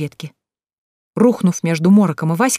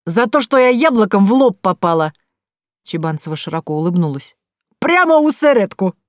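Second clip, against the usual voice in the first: proud boast; 3 semitones higher, 3 dB louder than usual. Acted.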